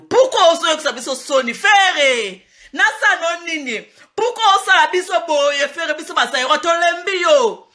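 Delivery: laughing reproach. Acted. Scolding a singer through laughs.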